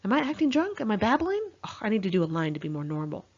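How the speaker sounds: lightly voiced jittery friend; imitating anxious friend. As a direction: mimic her nervous self-checking.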